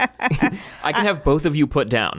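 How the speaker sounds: slow, haughty, laughing through it; mock celebrity. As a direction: threaten grandly while cracking up. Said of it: "being like".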